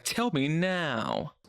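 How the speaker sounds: slow, deliberate demanding tone. Retold or imitated. Mocking Bella's demand, slow and insistent. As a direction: drag out each word like an order. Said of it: "She's like".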